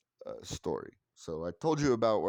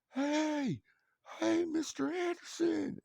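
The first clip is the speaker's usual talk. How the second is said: put-on high eager child's call; kid calling out; slower than usual. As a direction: pipe up like an excited little boy. Voicing neighbor kid calling out.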